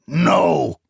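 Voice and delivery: high, loud pained cry; anguished shout. Acted. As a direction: shout it through grief. Character clutching chest, crying out.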